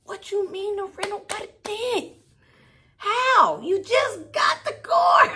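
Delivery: high, loud, near-crying disbelief; rising panic up to a loud how; shocked outburst. Retold or imitated. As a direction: yell it like the car is already ruined. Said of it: "And I'm like".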